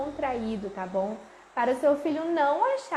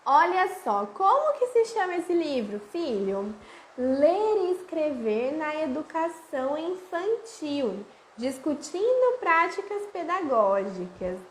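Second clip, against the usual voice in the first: inviting read-aloud; 3 semitones higher, slower than usual. Shown as a demonstration. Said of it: "primeiro vocês olham a imagem".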